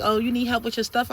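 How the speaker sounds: mock helpful sarcasm; sarcastic. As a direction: tease with fake kindness. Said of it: "trying to be funny, like, sarcastic".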